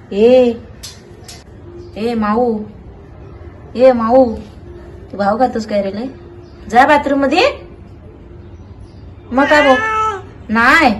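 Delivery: sing-song pet talk. Real, not acted. Coaxing the cat.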